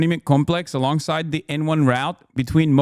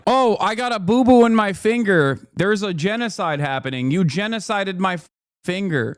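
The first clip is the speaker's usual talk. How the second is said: higher, babyish mock complaint; mock whiny farmer; 3 semitones higher than usual. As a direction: whine like a toddler over a scratch. Mocks whining white farmers.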